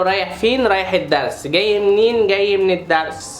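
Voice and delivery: loud singsong jeering; mock his excuses out loud; mocking taunt. Sibling taunting his brother to dad, loudly.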